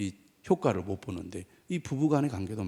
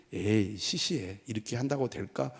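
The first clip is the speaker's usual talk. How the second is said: unimpressed imitation of a doubter; dismissive doubt; 4 dB quieter than usual. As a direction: voice a sceptic waving it away. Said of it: "우리가 그렇게 생각하고 잘 안 하거든요".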